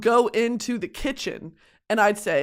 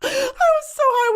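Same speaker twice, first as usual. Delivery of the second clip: breathy laughing whisper, pitched way up. Real, not acted. Laughing while admitting she was high. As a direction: gasp it out through laughter. Cracking up recalling the fight.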